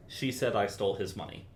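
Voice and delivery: "said" leaned on a little harder; stress on SAID. Shown as a demonstration. Teacher shows stress to the composer, landing on "said". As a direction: tip the weight onto "said". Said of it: "depending on how you emphasize".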